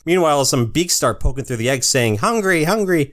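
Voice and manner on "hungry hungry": high squeaky chick voice; little hatchlings begging; baby bird voice. Acted. Baby birds voiced in recap.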